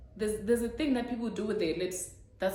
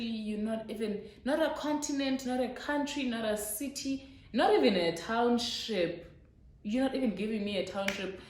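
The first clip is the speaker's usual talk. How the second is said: building outrage, rising higher; mock rant; 4 semitones higher than usual. Scolding the lover in her head, higher mock outrage. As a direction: list the letdowns with growing indignation.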